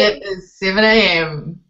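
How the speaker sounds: slow, drawn-out crooner-style delivery; soul-singer voice. Pretend. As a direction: playfully put on a slow soul-singer voice. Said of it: "I've got my soul-singer voice on".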